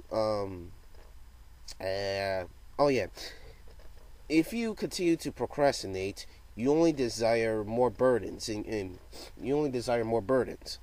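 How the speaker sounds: halting speech with repeated starts; stuttering. Real, not acted. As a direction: stumble and restart the words. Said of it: "without me stuttering".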